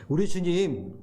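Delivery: ordinary talk, nothing marked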